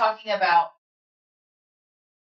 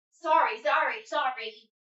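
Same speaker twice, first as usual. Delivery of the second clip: higher-pitched string of sorries; mock apologizing; 4 semitones higher than usual. Woman mimicking her constant Catholic apologies, mock-apologetic. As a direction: play up the over-apologizer.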